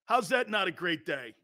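put-on lightly done South Philly accent; a touch of Philly fan. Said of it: "going like this".

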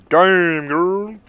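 high, loud flirty compliment; sassy admiration. Pretend. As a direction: hype up the look like a fan. Admiring character's new helm.

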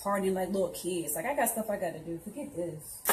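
low, soft grumbling under her breath; sulky grumble. Acted. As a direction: grumble to yourself on the way out. Scorpio sulks leaving the party.

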